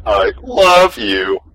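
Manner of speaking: robot voice. Acted. Robot confesses love.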